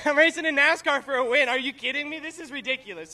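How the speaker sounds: high, excited voice starting on a laugh; thrilled and incredulous; giddy disbelief. Real, not acted. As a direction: marvel at your own luck. Driver marvels at racing for win.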